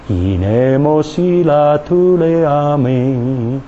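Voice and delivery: slow flowing glossolalia; speaking in tongues. Real, not acted. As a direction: let the tongue run freely. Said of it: "the tongue go".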